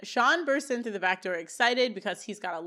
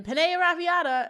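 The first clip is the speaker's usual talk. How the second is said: mock yell; 8 semitones higher, 6 dB louder than usual. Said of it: "Sean yells after him".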